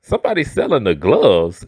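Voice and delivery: mock outraged boss; offended surprise. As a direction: manager jumping at the news. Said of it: "So he was highly offended".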